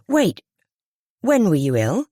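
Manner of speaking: high, sharp wait of realising; sudden alarm. A narrator's reading. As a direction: catch the flaw at once.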